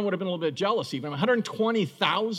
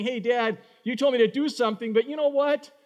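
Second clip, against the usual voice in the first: put-on higher, complaining child to his dad; whiny kid arguing; 5 semitones higher than usual. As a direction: pout it like a sulky son. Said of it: "the kid saying".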